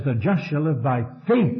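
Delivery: "faith" stressed, line ending on a rise. Shown as a demonstration. Preacher showing the Hebrews reading, weight on "faith". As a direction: save the push for the final word "faith". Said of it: "he puts the emphasis on faith".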